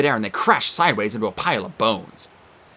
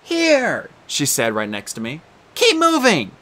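put-on girl's voice; 4 semitones higher, slower than usual. Annabeth voiced.

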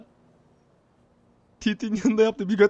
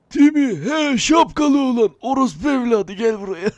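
mock yell; 3 semitones higher, 5 dB louder than usual. Calling out loudly.

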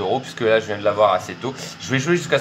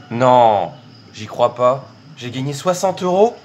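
surprised; 5 dB louder, slower than usual. Real, not acted. Surprise big slot win.

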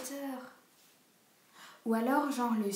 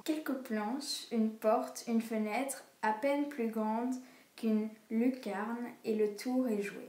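slow reading aloud; much slower than usual. Acted. Reading a novel's first sentence to her sister, slowly. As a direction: read the opening line slowly, word by word. Reads a book's opening line.

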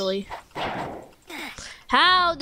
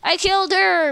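excited cheer; 5 semitones higher than usual. Real, not acted. Celebrating a kill in game.

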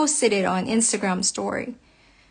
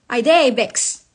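louder Nigerian Pidgin "I dey vexed", weight on "dey", falling; 3 dB louder, slower than usual. Real, not acted. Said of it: "As you can tell, I am pissed off".

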